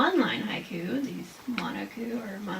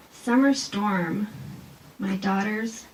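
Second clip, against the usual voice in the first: slow, tender haiku reading; poem reading; 4 dB louder, much slower than usual. Shown as a demonstration. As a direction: read slowly and gently. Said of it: "And also".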